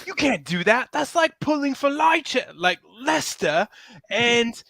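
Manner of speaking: a hammed-up British football fan voice; British accent. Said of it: "I can't do a good British accent. Let me try".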